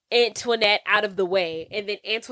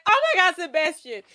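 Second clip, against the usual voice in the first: alarmed cry; 7 semitones higher, faster than usual. Retold or imitated. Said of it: "she's like".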